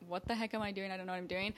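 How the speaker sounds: panicky self-talk. Retold or imitated. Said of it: "when I am super panicky".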